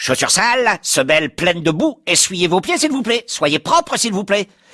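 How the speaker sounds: very high, shrill, nagging scolding yell. Narrator tells how his front door started scolding him, yelling. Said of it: "Je me fais engueuler par ma porte d'entrée, / Elle s'est mise à hurler".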